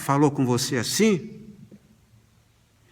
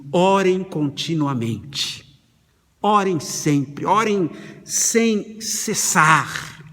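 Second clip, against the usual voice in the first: measured, weighty reading of the verse; slow scripture reading; much slower than usual. Real, not acted. Preacher reading Thessalonians to the congregation, slow and weighty. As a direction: read the verse slowly. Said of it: "nós lemos assim".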